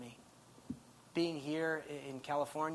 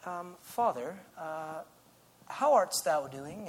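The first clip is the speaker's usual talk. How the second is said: mock English accent; slower than usual. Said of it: "with an English accent".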